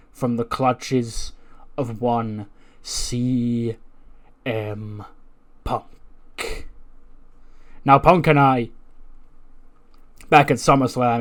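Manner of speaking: measured speech with deliberate pauses, lightly performed; wrestling promo. Acted. Wrestler addresses the arena about his title, measured promo delivery. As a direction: stretch key phrases for the crowd, then pause.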